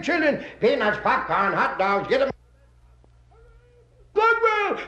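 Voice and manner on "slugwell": crowd cheer. Acted.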